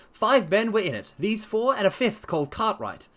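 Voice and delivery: lightly voiced confident sleuth; Holmes voice. Holmes promising to clear up the case, assured.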